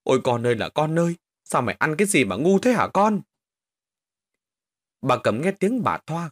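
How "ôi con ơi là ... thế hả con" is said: wailing lament. Acted. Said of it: "mà gào khóc".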